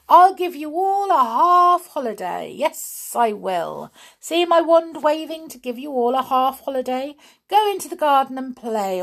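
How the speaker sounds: high, loud, gleeful announcement; exuberant proclamation. A narrator's reading. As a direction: proclaim a treat to a whole crowd. Binky grants a holiday with wand.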